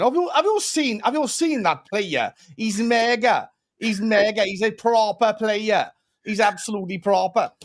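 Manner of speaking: lightly put-on Welsh accent; hammed-up Welsh, drawing out the key words. Host mimics his much-mocked accent for the chat, Welsh accent. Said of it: "whenever I do my Welsh accent".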